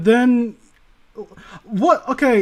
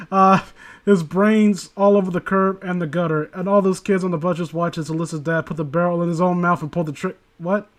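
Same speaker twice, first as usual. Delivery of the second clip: story reading. Acted. Reads a creepy story aloud.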